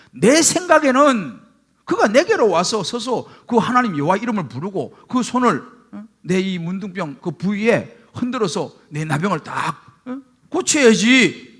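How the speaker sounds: a proud general who feels insulted and lets it show; the general fumes over being told to bathe in the river; retold angry complaint. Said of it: "라고 화를 내는 거예요".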